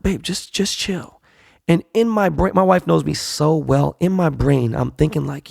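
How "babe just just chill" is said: soft, higher-pitched retold plea; hushed calming. Husband calms startled wife at night, hushed. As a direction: settle a partner down without being overheard.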